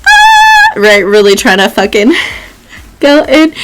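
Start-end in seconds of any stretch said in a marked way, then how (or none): 0.1-0.7 hammed-up soprano vocalise, much higher and louder; a portrait warming up her singing voice; shrill sung opera note. Fat lady portrait showing off her voice with a sung high note. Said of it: "and she's like".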